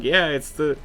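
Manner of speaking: slow, dragged excuse; slow drawn-out excuse. Retold or imitated. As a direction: drag it out lazily. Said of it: "And be like".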